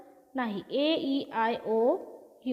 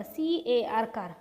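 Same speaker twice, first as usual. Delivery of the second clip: slow spelled-out reading; slower than usual. Shown as a demonstration. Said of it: "उदाहरण बघा".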